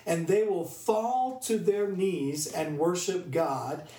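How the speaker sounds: slow, emphatic scripture reading. Acted. Preacher reading Corinthians to the church, slow and emphatic. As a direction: draw out the key phrases of the verse.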